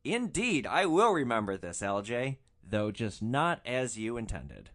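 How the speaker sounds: theatrical, knowing last word; wry grand reply. Retold or imitated. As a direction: echo his pompous threat with irony. Storyteller's wry closing thought.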